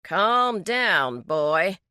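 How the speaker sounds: a condescending deputy's order; patronizing. Acted. Deputy talks down to the young mechanic, patronizing. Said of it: "in his patronizing tone".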